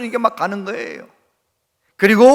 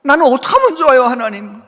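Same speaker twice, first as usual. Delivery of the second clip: louder, higher anguished plea to God; crying out in prayer; 3 semitones higher, 4 dB louder than usual. Retold or imitated. Pastor crying alone to God, mock anguished louder plea. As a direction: pour it out like a desperate pastor. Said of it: "그러면서 막 울어".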